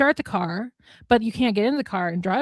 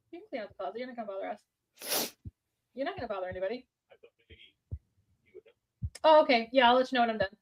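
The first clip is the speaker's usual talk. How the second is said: quiet aside; 2 semitones higher, 9 dB quieter, faster than usual. Real, not acted. Talking quietly to a parent.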